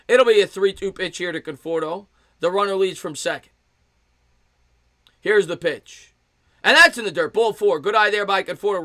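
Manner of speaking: baseball announcer calling a pitch; lifted sportscaster call with waits for the action; live play-by-play. Real, not acted. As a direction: set up the pitch, then punch the result.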